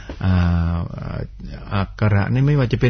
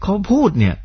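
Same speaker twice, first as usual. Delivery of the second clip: Suphanburi twang; 10 semitones higher than usual. Retold or imitated. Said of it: "เหน่อนะแต่พอร้องเพลงไม่เหน่อ".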